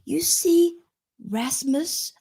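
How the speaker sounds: P=A; playful accent. Pretend. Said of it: "I don't know why I'm giving it an accent".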